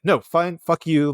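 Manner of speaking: lightly acted irritation; retold exasperation. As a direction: imitate guides losing patience. Retold guides losing patience.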